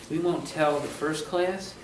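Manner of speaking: playful hushed confession; mock confidential. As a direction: let them in on it, softly and slowly. Jokey secret confided to the class.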